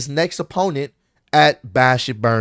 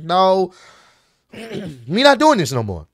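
higher-pitched, fed-up retort; irritated refusal, pitched up; 5 semitones higher than usual. Retold or imitated. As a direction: act out an irritated wrestling promo. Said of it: "And he got irritated here".

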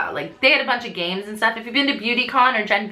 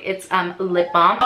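ordinary talk

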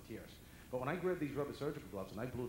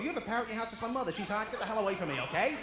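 shouting friend; 10 semitones higher, 12 dB louder than usual. Retold or imitated. Friends voiced shouting at door.

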